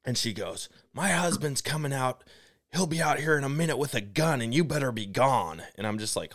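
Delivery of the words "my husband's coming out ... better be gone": high-pitched mock threat; imitated threatening woman. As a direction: mimic her warning them off in a raised voice. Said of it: "she's losing her mind".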